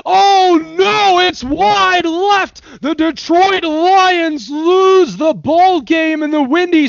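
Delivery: play-by-play call building from calm to a high, loud, frantic peak; sportscaster voice, slow then exploding; announcer voice. Shown as a demonstration. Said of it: "give me an announcer impression".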